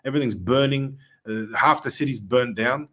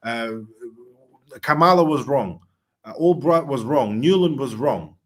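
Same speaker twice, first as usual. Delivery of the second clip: louder, emphatic list of who was wrong; imagined Trump declaration; 3 semitones higher, 4 dB louder than usual. Retold or imitated. Guest voicing what he hopes Trump will declare, raised and emphatic. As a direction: hammer out each name then was wrong. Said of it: "I hope he says".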